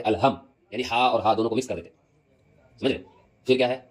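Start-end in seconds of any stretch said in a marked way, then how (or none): 0.0-0.3 "الحم" with an ordinary h in place of throat ح; ح softened to h. Shown as a demonstration. Teacher shows what careless readers say, ح softened to h. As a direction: blur the ح of "الحم" into a plain ہ. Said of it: "جو مخرج کے ساتھ ادا نہیں کرتے".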